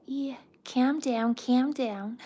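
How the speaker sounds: Scouse accent. Shown as a demonstration. Streamer showing her one Scouse line, hammed-up Scouse accent. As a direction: have a go at a Scouse catchphrase, high. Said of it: "The only thing I can do in a Scouse accent".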